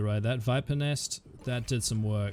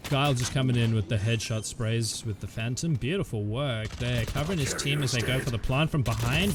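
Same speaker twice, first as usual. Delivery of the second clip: esports caster. Real, not acted. Live play-by-play commentary.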